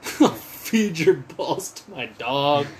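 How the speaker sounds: slow, lightly voiced tough-guy imitation; deep old voice. Imitating the dude on the album, lightly put-on deep old voice. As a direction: draw it out like a mock old tough. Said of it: "sounding like he's got a deep old voice".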